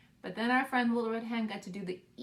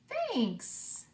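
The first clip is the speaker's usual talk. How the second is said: bear's grateful thanks; 9 semitones higher than usual. Acted. Bear thanks Mouse.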